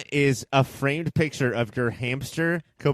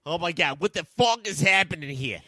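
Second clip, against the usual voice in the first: Louie. Acted. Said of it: "my voice is so much different than Louie".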